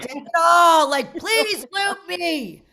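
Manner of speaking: high, drawn-out comic plea; mock pleading. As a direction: beg them in exaggerated desperation.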